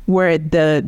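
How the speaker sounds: "where" said "weh"; "where" with no R at the end. Shown as a demonstration. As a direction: drop the R in "where". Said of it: "the R is at the end of the word".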